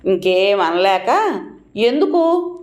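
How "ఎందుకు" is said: high, pained little why. Retold or imitated. Narrator asks sister-in-law why she pinched her, pained and high. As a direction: ask why while smarting from the pinch. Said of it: "నొప్పితో నడుం మండిపోతుంటే".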